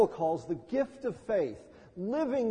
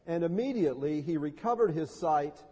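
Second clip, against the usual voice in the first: measured, lower-pitched gospel reading; scripture reading; 3 semitones lower than usual. A narrator's reading. Pastor reads Bartimaeus's healing to the congregation, scripture reading. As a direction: read the story solemnly, with pauses between phrases.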